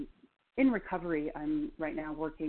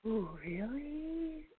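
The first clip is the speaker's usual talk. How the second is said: skeptical; 9 semitones higher, 5 dB quieter, much slower than usual. Retold or imitated. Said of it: "this other side of me went".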